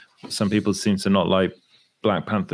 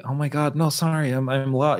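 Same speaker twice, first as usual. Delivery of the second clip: Rickman's fake American; 4 semitones higher than usual. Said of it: "he does the".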